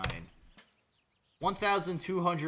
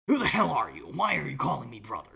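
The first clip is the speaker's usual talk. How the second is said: loud gruff demand; mock angry shout; 5 dB louder than usual. Shouting at the stranger calling him brother, mock angry shout. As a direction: bark it out like a startled soldier.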